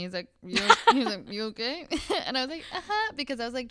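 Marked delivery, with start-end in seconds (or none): 0.5-1.9 imitated chuckling check-in, pitched up at first; laughing concern. Masseur laughing at his client in pain, amused checking. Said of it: "he even, like, kinda laughed at me". 2.7-3.1 high, louder squeak through a laugh; stifled pain. Retold or imitated. Client hiding pain from the masseur, strained mock agreement. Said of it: "trying not to, like, scream out in pain".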